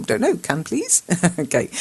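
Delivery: ordinary talk, nothing marked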